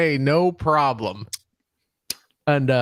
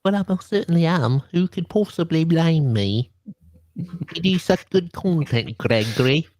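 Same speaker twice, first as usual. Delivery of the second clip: put-on English accent. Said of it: "Where's your accent from?".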